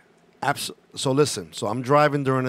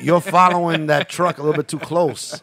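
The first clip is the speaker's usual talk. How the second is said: stern trooper; 4 semitones higher, 7 dB louder than usual. Retold or imitated. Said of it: "He's like".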